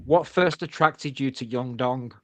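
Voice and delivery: slow, deliberate mock-serious read; reading out a mate's cheeky message, slow and mock-grave; mock interviewer reading. Shown as a demonstration. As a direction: read the question like a chat-show host. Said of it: "The exact wording of it is".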